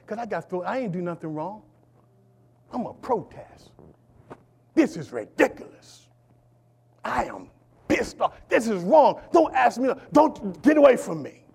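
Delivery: hint of a wronged man pouting; sulky attitude. Preacher voices Joseph complaining he did nothing wrong, sulky. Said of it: "he could have had an attitude".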